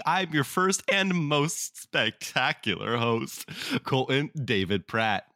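put-on slow, showy theater-kid announcer; cartoon character voice. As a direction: ham it up like a cartoon host. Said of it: "You sound like a theater kid".

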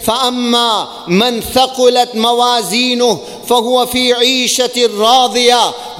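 fast chanted Arabic verse; quick Quranic recitation. Acted.

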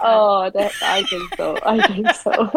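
laughing through the words. Real, not acted. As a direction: agree while laughing. Laughing while agreeing.

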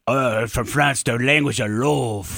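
put-on slow, drawn-out French accent; hammy French accent, languid and low. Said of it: "everybody says it. It's like".

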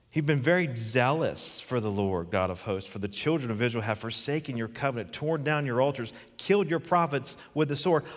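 Elijah's self-pity, played up; self-pitying complaint. Complaint re-read, rising emphasis.

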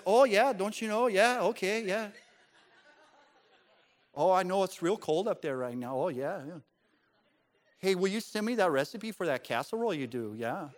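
lightly imitated Upper Midwest accent; chatty Midwest phone-call accent, gently mocked; Midwestern accent. Imitating his wife chatting to family up north, Midwestern accent. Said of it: "sounds like people from the north. Or more like the people from the Midwest".

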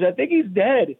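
high, stammering joke-caller panic; mock panic. Idiot hunter who shot his friend, mock panic. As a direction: plead for help in hammed-up alarm.

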